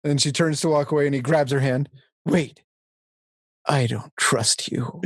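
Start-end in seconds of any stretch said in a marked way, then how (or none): 2.2-5.0 slow, lower mock-dramatic line reading; more dramatic. Film hero redoing his line for her, more dramatic. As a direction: pause after "Wait", then slow it down for drama. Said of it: "he has to do it, like, more dramatic".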